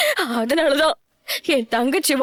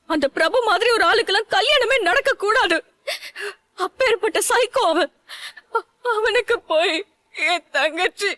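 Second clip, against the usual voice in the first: crying; 2 semitones higher than usual. Acted. Distraught sister fears for sibling.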